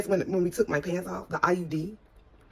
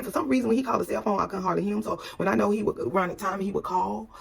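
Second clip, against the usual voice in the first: ordinary delivery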